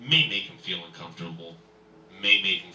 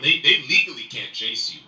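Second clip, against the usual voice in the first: ordinary talk, nothing marked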